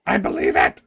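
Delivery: loud, low dramatic outburst; indignant outburst. Acted. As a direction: blurt it out forcefully, hammed-up. Dramatic sister protests to brother.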